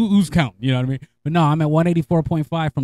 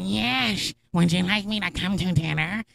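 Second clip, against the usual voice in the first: higher, overly polite put-on voice; sweetly fake-polite, like a sulky husband; mock polite voice; 4 semitones higher than usual. Answering his wife's call in a mock-polite voice.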